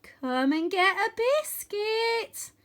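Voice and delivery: high, slow, wary coaxing; boy nervously offers a dragon a biscuit. Acted. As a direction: lure the dragon gently but scared.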